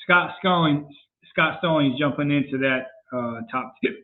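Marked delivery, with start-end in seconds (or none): 3.1-4.0 hiccuping between words; talking through hiccups. Real, not acted. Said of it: "Sorry, I got the hiccups".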